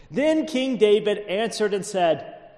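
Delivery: scripture reading. A narrator's reading. Reads scripture aloud.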